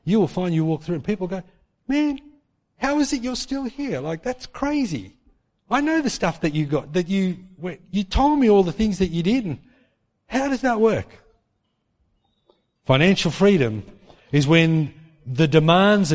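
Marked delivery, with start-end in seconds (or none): 1.9-11.1 high, amazed voicing of onlookers. Friend marveling at how you survived, high and amazed.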